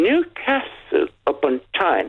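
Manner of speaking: Newcastle upon Tyne said slowly and in full; full pronunciation. Shown as a demonstration. Caller giving the city's full name, slow full pronunciation. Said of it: "that's the full pronunciation of it".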